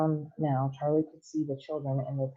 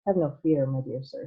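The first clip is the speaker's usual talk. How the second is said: calm. Acted. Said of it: "said Mister Wonka calmly".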